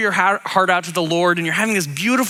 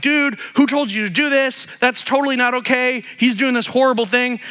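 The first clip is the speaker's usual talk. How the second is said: higher, scandalized accusation; higher, alarmed, outraged crowd; indignant objection; 5 semitones higher than usual. Retold or imitated. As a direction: accuse him, freaking out. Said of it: "They're like".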